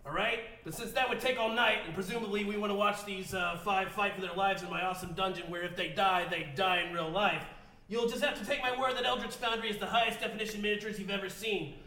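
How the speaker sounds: lightly voiced burpy mad scientist; a hint of a cranky grandpa genius; Rick voice.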